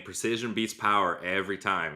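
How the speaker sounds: a light hint of an Irish accent; just a touch of a Conor McGregor Irish lilt, not dolled up. Podcaster quoting Conor McGregor in a slight Irish accent. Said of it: "Hopefully that Irish accent wasn't too bad there".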